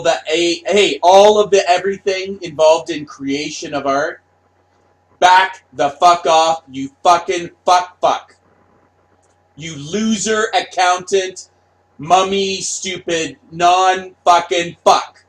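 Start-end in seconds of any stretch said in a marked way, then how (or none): 5.2-15.2 louder cursing rant; angry rant. Retold or imitated. Artist raging at critical fans, loud angry cursing. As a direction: snap it at the fans.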